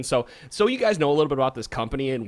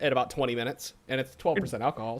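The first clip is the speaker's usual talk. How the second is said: ordinary talk, nothing marked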